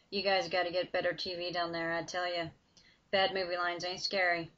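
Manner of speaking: lightly voiced southern tough guy, teasing; lazy drawl, unimpressed by the monster. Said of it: "a dark voice with a heavy southern drawl".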